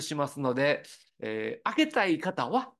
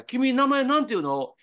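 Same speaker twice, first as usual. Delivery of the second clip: voiced conductor's question; 9 semitones higher, 5 dB louder than usual. Conductor Ozawa asks violinist her name.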